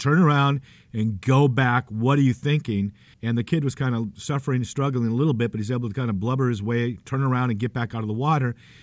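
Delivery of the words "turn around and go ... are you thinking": put-on voice of authority, slow and commanding. Retelling how a man called out to someone walking into the water, retelling a voice of authority. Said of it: "with a real voice of authority just said".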